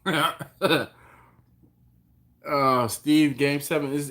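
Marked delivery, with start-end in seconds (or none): 0.1-1.0 breaking up laughing. Real, not acted. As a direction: laugh through the words. Laughing at viewer comment.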